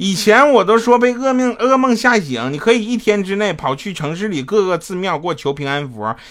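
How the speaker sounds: put-on stylish young woman's voice, high, loud, scolding.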